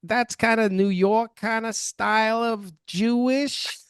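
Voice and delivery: high whiny New York Jewish mother voice; whiny Jewish mother accent. Acted. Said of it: "the whiny Jewish mother accent".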